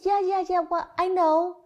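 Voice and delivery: put-on high, dismissive little-boy yeah-yeah; lightly voiced child. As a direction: brush it off like a kid. Son brushing off mother.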